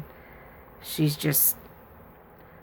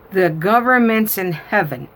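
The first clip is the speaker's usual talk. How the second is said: put-on higher, louder childlike declaration; earnest little girl; 3 semitones higher, 6 dB louder than usual. Granddaughter explaining to grandma, earnest childlike voice. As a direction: announce it like a serious small child.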